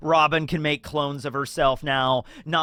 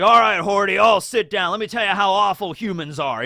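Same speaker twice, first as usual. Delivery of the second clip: put-on louder, higher, calling the boy over; loud mentor lecture; 4 semitones higher, 5 dB louder than usual. Mentor loudly summoning the boy for a lecture. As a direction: call the kid to sit and hear the lecture. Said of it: "he's like".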